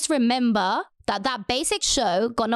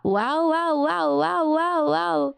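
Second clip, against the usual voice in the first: higher, chanted run of mock-amazed wows; sarcastic wow; 4 semitones higher, much slower than usual. Real, not acted. Podcaster reacting to an ignored great show, sarcastic wow. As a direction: keep repeating it with exaggerated, scornful amazement.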